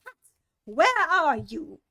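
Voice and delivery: loud, slow angry shout for Pat; the rabbit yelling angrily for Pat; angry call. Acted. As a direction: bellow for the servant, furious. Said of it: "the rabbit's angry voice".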